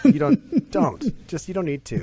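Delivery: high, loud, laughing warning; emphatic warning. Real, not acted. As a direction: warn them off with a grin. Warning about Sandusky.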